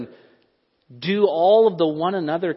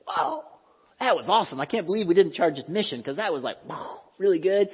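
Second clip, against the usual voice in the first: amazed concert fan. Retold or imitated. Preacher imitating a crowd after a concert, gushing mock awe. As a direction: gush like a wowed fan after a great show. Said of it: "It was just like".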